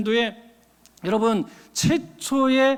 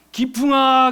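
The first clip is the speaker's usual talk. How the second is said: calling out; 5 dB louder, slower than usual. Acted. Voice in dream calling name.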